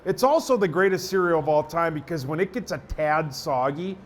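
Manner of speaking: conversational radio spot read; improvised ad read. Shown as a demonstration. Radio guy improvising a cereal spot on request, conversational ad read. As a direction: pitch it like chatting to a listener, slowing on the brand name. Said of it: "see if I can do a minute on it".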